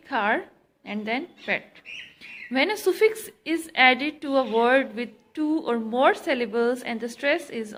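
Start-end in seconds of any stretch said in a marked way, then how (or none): 0.1-1.8 खार and pet as two separate beats, खार first and stressed; खार stressed, pause, then pet; stressed first syllable. Shown as a demonstration. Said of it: "किस पे stress देंगे?".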